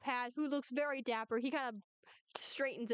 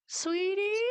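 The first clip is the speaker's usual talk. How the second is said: mildly flustered, raised-pitch coaxing; 8 semitones higher than usual. Acted. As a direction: call out higher, a touch flustered. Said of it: "acting all flustered".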